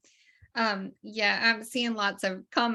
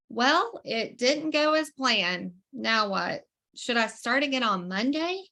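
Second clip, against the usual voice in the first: mock dismay; 2 semitones higher than usual. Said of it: "here's my question".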